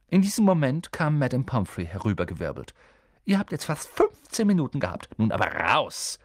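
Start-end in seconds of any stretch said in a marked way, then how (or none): 3.2-6.2 firm. Acted. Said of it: "sagte sie bestimmt".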